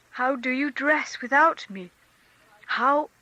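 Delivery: forced cheerfulness. A narrator's reading. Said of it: "tried to begin talking simply and cheerfully".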